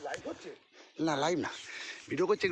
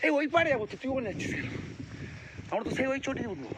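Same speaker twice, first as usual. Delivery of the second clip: higher, louder call across the trail; 10 semitones higher, 4 dB louder than usual. Real, not acted. To a friend on the wrong path, loud calling out. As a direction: shout to a friend going the wrong way.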